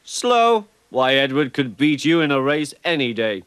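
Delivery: high, loud indignant protest; offended, snapping back. Acted. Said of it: "Thomas and Percy were indignant".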